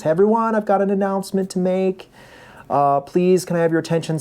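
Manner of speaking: announcer on a microphone. Retold or imitated. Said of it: "he gets on the microphone".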